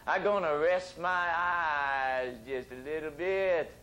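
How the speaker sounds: slow, drawn-out drowsy drawl; mock sleepy. Storyteller acts out dozing off over late-night reading, mock sleepy. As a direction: stretch the words out as if nodding off. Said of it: "sleepy, and I'd say".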